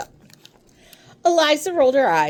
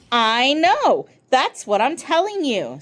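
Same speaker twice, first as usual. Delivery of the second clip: frustrated; 5 semitones higher than usual. Acted. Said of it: "getting frustrated".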